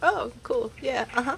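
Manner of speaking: mock sarcastic tone. Showing how own out-loud responses usually sound: mock sarcastic reply. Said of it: "Very sarcastic".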